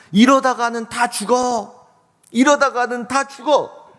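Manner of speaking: high, drawn-out warning cry; old man crying out. Acted. Old man shouting from a high place to people fighting, crying out. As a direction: call out high over the crowd, stretching the words. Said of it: "높은 곳에 올라가서 이렇게 소리칩니다".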